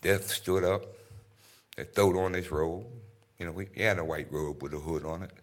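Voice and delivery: lightly voiced Troy Maxson, storytelling; low, easy storytelling as Troy; a hint of Troy telling his tale. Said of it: "That was Troy Maxson from Fences".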